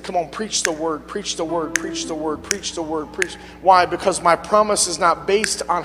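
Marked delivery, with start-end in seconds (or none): 0.0-3.3 quiet, repeated gentle urging; a soft, insistent call to preach; hushed coaxing repetition; soft urging voice of God. Retold or imitated. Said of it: "the Lord spoke to me and said".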